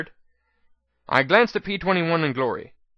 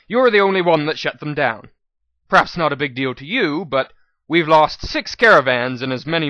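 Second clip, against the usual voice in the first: louder, cool businesslike merchant voice; shrewd merchant mare; 5 dB louder than usual. Acted. Manager mare corrects the modest mayor, coolly businesslike. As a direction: press the point like a sharp trader. Bottlecap's held character voice.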